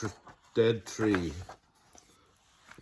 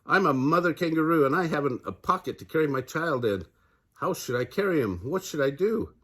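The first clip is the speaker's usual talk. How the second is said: mild scream; 5 semitones higher than usual. Acted. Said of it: "screamed at him".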